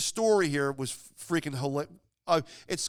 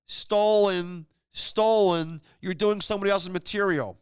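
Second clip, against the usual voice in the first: imitating a heckler's yell, louder and higher; 4 semitones higher, 5 dB louder, slower than usual. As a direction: shout it out from the crowd like a drunk heckler. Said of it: "somebody yelled out".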